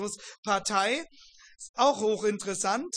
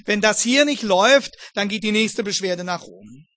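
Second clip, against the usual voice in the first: threatening; 6 dB louder than usual. Retold or imitated. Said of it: "das hieß auf Deutsch".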